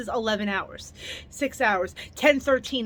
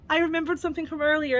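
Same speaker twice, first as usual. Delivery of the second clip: excited; 5 semitones higher, faster than usual. Retold or imitated. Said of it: "I was like".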